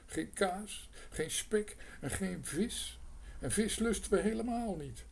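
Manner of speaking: a hungry mouse's rising complaint; high mouse whine building up; whining mouse. A narrator's reading. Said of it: "jammerde Lodewijk".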